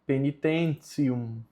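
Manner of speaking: penitentium with the first e half swallowed and ti said as tsi; penitentium, ti sounded like tsi; correct Latin pronunciation. Shown as a demonstration. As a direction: say penitentium as pe-ni-ten-tsium. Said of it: "a pronúncia correta é penitentium".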